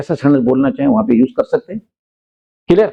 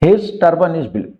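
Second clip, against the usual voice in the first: very slow, word by word; slow example sentence; much slower than usual. Shown as a demonstration. Teacher reading an example sentence to students, very slow. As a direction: read it slowly so learners follow. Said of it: "example sentence read slowly".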